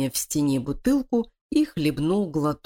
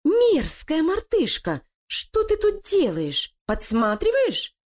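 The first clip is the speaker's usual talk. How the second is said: high, slow, furious shriek; angry outburst; 13 semitones higher than usual. Acted. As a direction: catch the spy and snarl at him. Лилия ловит крысу. (гневный окрик)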